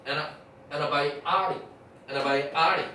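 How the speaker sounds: "에나바이아리" with the t's softened away; reduced antibiotic. Shown as a demonstration. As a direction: stress later in "에나바이아리", weak start. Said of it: "그래갖고 에나 이렇게 발음돼".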